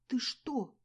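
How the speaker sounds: high, loud gasp of offence; shocked and hurt. A narrator's reading. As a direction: gasp out, stung. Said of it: "ахнула я от обиды".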